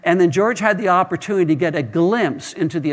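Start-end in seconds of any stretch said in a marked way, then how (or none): 0.0-0.2 mild mock proclamation; retold shout. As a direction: call it out again, lightly raised. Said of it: "So he shouted out again".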